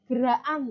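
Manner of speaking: geraan for gerakan, k swallowed; Javanese-style gerakan without k; dropped k. Shown as a demonstration. Teacher quoting how Javanese speakers say it: geraan. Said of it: "orang Jawa sering bilang".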